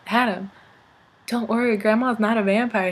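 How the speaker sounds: put-on softly soothing a child; gentle reassurance. Teller calming Adam about grandma, soft reassuring voice. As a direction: talk a scared kid down quietly. Reassuring a frightened little cousin.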